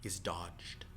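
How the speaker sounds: whispered, slow reveal. Acted. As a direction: breathe it out quietly. GM delivers a dodge.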